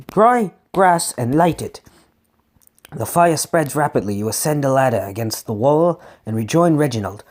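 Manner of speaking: animated read-aloud storytelling; expressive story reading; gamebook narration. A narrator's reading. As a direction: read the adventure with lightly acted dialogue.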